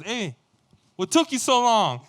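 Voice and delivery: high, loud mock scolding; demanding dad. Dad greeting his late son at the station, loud retold demand. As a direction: call out impatiently as the dad.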